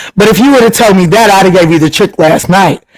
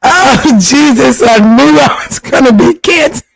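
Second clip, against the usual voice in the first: laughing despair; 5 semitones higher than usual. Real, not acted.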